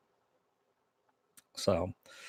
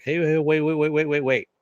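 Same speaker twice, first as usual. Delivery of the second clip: higher, louder run of repeated waits; urgent interruption; 5 semitones higher, 4 dB louder than usual. Retold or imitated. Mister Robot stops Elliot's tirade, urgent interruption. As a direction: cut in to halt an outburst, retold.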